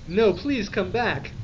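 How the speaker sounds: high, slow mock plea; hammy lovesick pleading; sad pleading. A narrator's reading. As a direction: beg in a drawn-out sorrowful voice. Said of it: "shouted Draco sadly".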